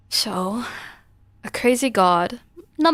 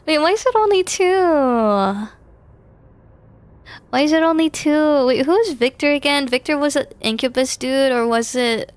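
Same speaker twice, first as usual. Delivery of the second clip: loud confusion; 6 semitones higher, 6 dB louder than usual. Real, not acted. Player confused at the ending.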